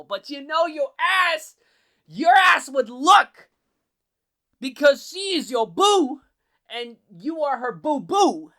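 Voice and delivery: very high, loud and slow, teasing; high mock yell. Teasing the shy hero about his girlfriend, high mocking yell. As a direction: holler it up high like ribbing a buddy.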